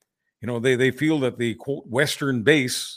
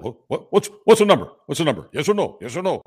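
mocking an annoying nerd; 3 semitones higher, 3 dB louder, faster than usual. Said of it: "those kinds of nerds in high school".

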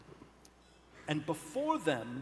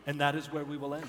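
excited wrap-up; 7 dB louder, much faster than usual. Real, not acted. Ending the session.

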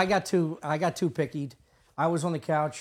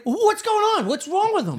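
high, loud, panicky questions; mock panic with pitch shooting up; retold alarm; 13 semitones higher, 4 dB louder than usual. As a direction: fire off startled questions, half laughing. Retold immediate alarm at the intruder.

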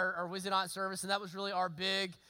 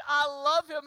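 mock whine; 5 semitones higher, 8 dB louder than usual. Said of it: "'cause she's saying".

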